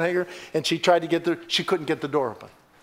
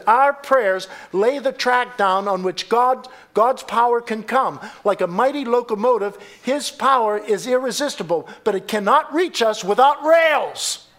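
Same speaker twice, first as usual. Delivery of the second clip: raised, emphatic preacher's quotation; fervent preaching; 7 semitones higher, 5 dB louder than usual. Real, not acted. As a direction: declaim it to rouse the congregation.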